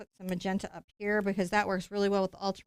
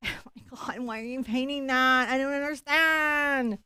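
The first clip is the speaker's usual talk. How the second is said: art snob; 3 semitones higher than usual. Acted. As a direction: sniff at the painting like a snooty critic. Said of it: "My art critic sounds like this".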